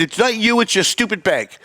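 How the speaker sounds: high, exasperated retold excuse; mildly angry re-enacted apology; retold mid-yell apology. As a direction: spare the person, blame the bank, still worked up. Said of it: "I'm still yelling because I'm still mad".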